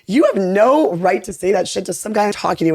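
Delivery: retold indignant scolding; furious retort. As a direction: retell telling someone off, mildly heated. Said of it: "so furious".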